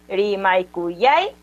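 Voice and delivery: RIMAIKUYAIKI drawn out slowly, weight late in the word on YAI; stress before the end. Shown as a demonstration. Teacher showing where voice force falls, RIMAIKUYAIKI slow with YAI stressed. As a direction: stretch RIMAIKUYAIKI and lean on YAI. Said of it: "en la antepenúltima".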